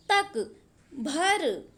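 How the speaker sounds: drawn-out तक, भर; lingering on each example word; very slow listing. Shown as a demonstration. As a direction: stretch तक and भर slowly, one at a time. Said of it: "example आप लोग देखिएगा".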